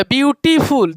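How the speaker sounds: "ब्यूटीफुल" in two beats, ब्यूटी then फुल; broken into two parts. Shown as a demonstration. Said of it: "दो बार में हो रहा है". ("ब्यूटीफुल" को दो बार में तोड़कर बोलें)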